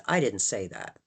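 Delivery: I didn't say that, with the weight on I; I stressed, then the rest falling. Shown as a demonstration. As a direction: lean on the word I. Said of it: "Let's look at this phrase".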